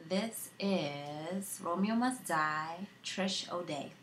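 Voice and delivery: put-on a young woman remembering her dead brother, tearful; grieving sister monologue. Acting a film monologue.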